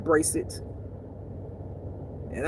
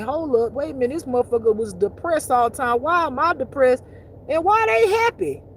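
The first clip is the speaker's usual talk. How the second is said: mock realization; 4 semitones higher, 3 dB louder than usual. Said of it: "You realize that".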